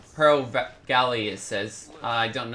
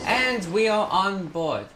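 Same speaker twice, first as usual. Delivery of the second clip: high, drawn-out proclamation; sing-song arrival announcement; triumphant announcement; 6 semitones higher, slower than usual. Real, not acted. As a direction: announce it slowly, stretching each word high. Announcing arrival aboard, playful.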